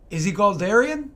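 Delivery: loud, high question hollered over a distance; calling out. Acted. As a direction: shout the question after someone walking away. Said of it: "he calls out to you".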